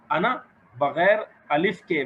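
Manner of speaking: अना said with a short unstretched final a; teacher models अना without lengthening; short a, no stretch. Shown as a demonstration. Teacher modelling अना with short vowel. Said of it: "बगैर खींचे पढ़ते हैं".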